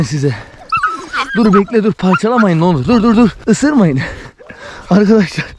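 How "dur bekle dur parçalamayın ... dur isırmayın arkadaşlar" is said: calling out to stop. Real, not acted. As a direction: shout them off the meat. Puppies tearing at meat, calling out.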